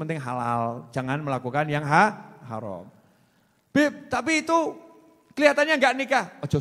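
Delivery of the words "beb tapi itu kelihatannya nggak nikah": high, loud mock protest; put-on high complaining voice; imitated objecting woman. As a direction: play a wife pushing back.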